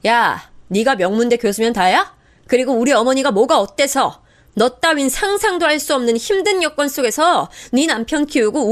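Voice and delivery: daughter-in-law yelling at sister-in-law; angry shout. Acted. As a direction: shout her down for insulting mother. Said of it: "바로 소리쳤습니다".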